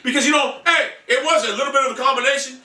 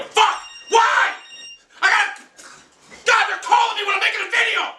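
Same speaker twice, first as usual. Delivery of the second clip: frustrated shout; 12 semitones higher than usual. Real, not acted. Phone rings mid-video, he yells in annoyance. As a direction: burst out at the interruption.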